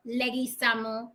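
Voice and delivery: "Leguizamo" said leh-gee-SAH-mo; "Leguizamo" with gui as gee; Spanish-style pronunciation. Shown as a demonstration. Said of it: "however you wanna pronounce it".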